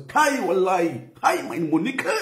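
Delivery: mock Hausa accent, lightly put on. Shown as a demonstration. Vlogger demoing Hausa accent to viewers, lightly put on. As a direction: slip into a Hausa accent for a greeting. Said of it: "now I wan use Hausa voice".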